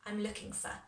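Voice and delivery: "for" weakened to a short "fuh"; reduced "for". Shown as a demonstration. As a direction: say "for" unstressed, with a neutral short vowel. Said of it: "hear how the for just becomes for".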